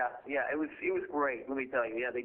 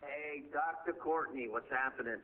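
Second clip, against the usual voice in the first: echoing tunnel; 6 dB quieter than usual. Real, not acted. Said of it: "You sound like you're in a tunnel".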